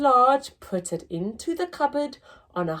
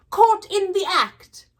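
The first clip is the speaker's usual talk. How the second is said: much higher, loud gotcha; triumphant shout; 11 semitones higher, 7 dB louder than usual. Acted. Husband catching wife at the cupboard, loud. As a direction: pounce with delight.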